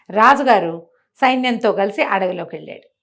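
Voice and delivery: usual speaking voice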